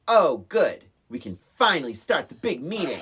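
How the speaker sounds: loud dramatic quote; dramatic Pee-wee. Retold or imitated. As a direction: overdramatic and loud. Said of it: "everything is so dramatic".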